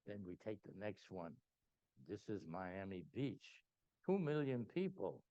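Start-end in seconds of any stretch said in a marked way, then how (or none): 2.1-5.2 slow, grand presenter voice; dramatic showman. Retold or imitated. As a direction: unveil each city like a showman, slowly. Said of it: "I'm making it as dramatic as I can".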